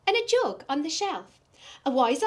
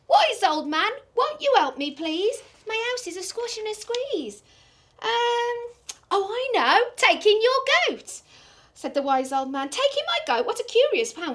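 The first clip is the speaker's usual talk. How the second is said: put-on high, fretful little old lady; 6 semitones higher, 3 dB louder than usual. Old lady crying to the wise old man for help. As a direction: wail it like a flustered old lady.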